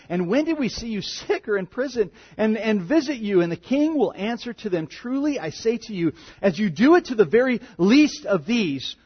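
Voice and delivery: solemn, measured reading voice; scripture reading. Acted. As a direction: read the king's welcome with weight. Reads the king's words.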